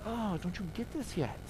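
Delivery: a touch of righteous grouchiness, under the voice; grouchy Jesus. Acted. Jesus to those who weren't getting it, mildly grouchy. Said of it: "We'll call it a righteous grouchy".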